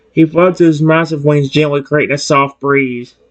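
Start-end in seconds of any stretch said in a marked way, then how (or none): none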